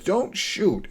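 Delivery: half-power retold yell; retold scream. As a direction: pitch it up as an imitated urgent cry. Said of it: "until he says".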